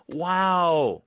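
high gasp then loud wow; excited wow. Shown as a demonstration. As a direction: burst out with delight. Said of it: "very up and exciting and very happy". (신난 감탄)

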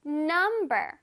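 "number" with the beat on num; first-syllable stress. Shown as a demonstration. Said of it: "num 할 때 강세를 줘서". ("number"에서 num을 강하게)

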